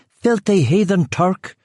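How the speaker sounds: put-on high, slow voice of an old lady; old woman insulting. A narrator's reading. Old woman cursing the fleeing intruder, high slow.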